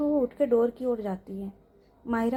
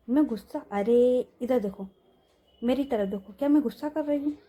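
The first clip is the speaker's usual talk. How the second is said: insistent; 5 dB louder than usual. Acted. Mahira insists she is not angry.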